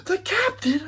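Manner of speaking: high, loud panicked yelp; acted freak-out. Captain on a pursued pirate ship, acted freak-out. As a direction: shriek it in mock panic. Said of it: "I'm, like, freaking out".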